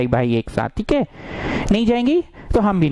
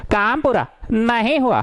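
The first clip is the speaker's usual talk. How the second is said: higher, swooping singsong on each half; drilled catchphrase; 5 semitones higher than usual. Shown as a demonstration. Teacher drilling the rule into students, in exaggerated singsong. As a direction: chant the rule in two big falling swoops.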